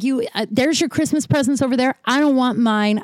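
retold screaming. Refusing presents in retold row, mild mock outburst. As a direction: reject it hotly, short of yelling. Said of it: "screamed at somebody like this".

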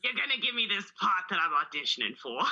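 lightly voiced spin doctor at an audition. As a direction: pitch yourself with put-on assurance. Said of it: "that's the voice that I use".

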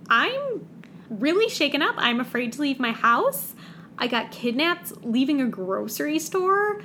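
high, hammed-up frightened whimper; mock scared whine. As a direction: overplay a shaken victim. Mocking Savannah's frightened complaint.

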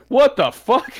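loud, high exclamation of disbelief; hammed-up incredulous outburst; mock shock. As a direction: blurt it like a stunned crowd. Voices crowd's shock after record scratch.

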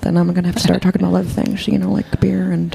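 a light take on Holly Hunter, barely shifted from her own voice; Holly Hunter impression. Host asks for her Holly Hunter, she lightly teases him in it. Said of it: "I like that impression 'cause no one does Holly".

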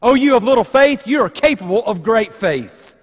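lifted, affirming address to Peter; encouraging. Acted. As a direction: urge him on with belief. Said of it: "speaking into the life of Peter".

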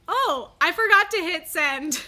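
imitating his careless confession; mock oblivious boyfriend. Quoting boyfriend's app blunder.

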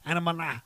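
"Anamana-" broken off mid-word, syllables muddled; stumbling attempt. Real, not acted. Man stuck on a hard word, "Anamana-" fumbled. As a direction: get lost inside the word "Anamana-" and give up. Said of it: "how do you say that word".

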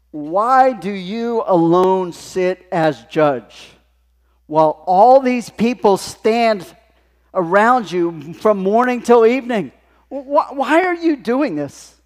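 slow, loud, hammed-up Italian accent. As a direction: scold him like an incredulous Italian father-in-law, voice climbing. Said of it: "he's Italian".

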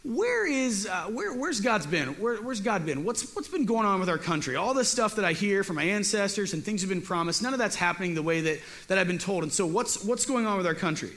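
a hint of a whining coward asking questions; whiny Gideon. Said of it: "Gideon is right away is like".

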